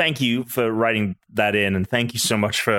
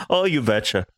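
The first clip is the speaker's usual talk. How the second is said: mock Minnesotan accent. Co-host joining in on the catchphrase, mock Minnesotan accent. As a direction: echo it in a playful Minnesotan accent.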